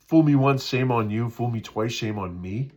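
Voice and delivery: "Fool me once" called out loud; loud proverb. Shown as a demonstration. Pastor correcting the proverb, loudly. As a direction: belt the saying. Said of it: "corrected proverb, louder".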